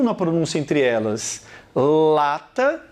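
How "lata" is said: "Lata" with the tongue a bit further back; demo of L. Shown as a demonstration. Teacher showing where the tongue goes, careful "Lata". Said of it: "o seu L tá lá um pouquinho mais pra dentro da boca".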